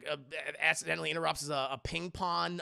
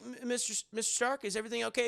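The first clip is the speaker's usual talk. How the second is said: put-on higher, stammering young voice; Peter Parker; 5 semitones higher, faster than usual. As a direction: imitate a hesitant kid checking on a mentor. Peter timidly asks Stark.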